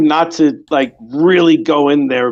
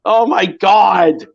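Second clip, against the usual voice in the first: mock wail; 3 semitones higher, much slower than usual. Scandalized old lady wailing.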